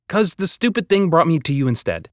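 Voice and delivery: high exasperated voice; frantic. A narrator's reading. Boy explaining the stubborn machine to Hazel, exasperated. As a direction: blurt it out, exasperated. Quarrel mid-battle.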